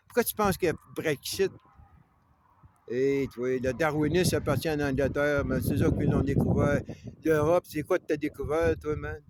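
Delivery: indignant harangue against the English; heated rant. Real, not acted. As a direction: jab the question at them like a debate. Heated rant about Europe and England.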